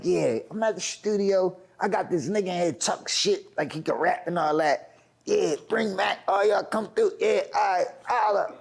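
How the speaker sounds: imitating a nonchalant phone call; offhand retold call, not a care; unbothered. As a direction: act out a casual summons over the phone. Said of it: "like he ain't bothered and shit".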